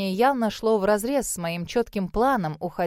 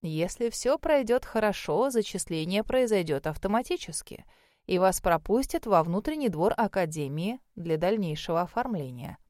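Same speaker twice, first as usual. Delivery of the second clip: put-on unhurried elderly examiner, trailing softer; old mage, reassuring; 2 semitones lower, 3 dB quieter than usual. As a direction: explain it calmly as a kindly old mage. Voices the old mage explaining procedure. (старый маг, спокойно объясняет)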